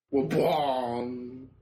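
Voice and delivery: booming vocal door slam; Inception door slam. Pretend. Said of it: "Inception door slam sound".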